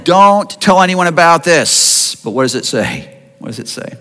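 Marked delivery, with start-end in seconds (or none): 0.0-2.2 slow, louder firm warning. Acted. Jesus warning the healed men, slow and firm. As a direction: lay down the order. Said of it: "So he warns them".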